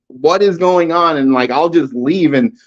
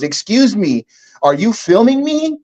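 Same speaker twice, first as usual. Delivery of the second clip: lightly voiced young woman, pitched up; a hint of a prim girl asking politely; mock-polite young woman asking; girl's polite question; 6 semitones higher than usual. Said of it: "she goes".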